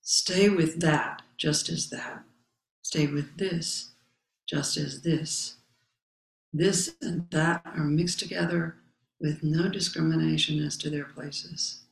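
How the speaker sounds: slow, measured reading of a sacred text; solemn text recitation. Acted. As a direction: recite each phrase with space around it. Reading the Zen text aloud.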